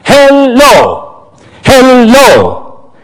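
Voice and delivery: exasperated calling out. A narrator's reading. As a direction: call out, fed up of waiting. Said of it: "he called out softly in some exasperation".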